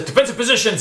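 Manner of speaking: hobgoblin voice. Acted. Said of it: "he says, says".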